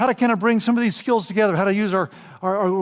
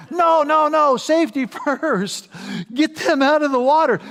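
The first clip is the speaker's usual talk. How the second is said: louder, higher no no; emphatic correction; 7 semitones higher, 5 dB louder than usual. Retold or imitated. Rafting guide overrules the joke answer, emphatic and louder. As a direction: correct them firmly.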